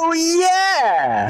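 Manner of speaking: oh yeah, it dawns on you; surprised realisation. Real, not acted. Sudden realisation.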